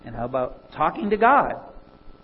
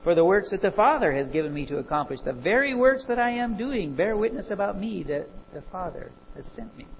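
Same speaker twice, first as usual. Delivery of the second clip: steady, brisk Bible reading to the congregation; scripture reading; 2 semitones higher, faster than usual. Acted. Preacher reading John aloud to the congregation, brisk and steady. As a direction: read the verses out with conviction.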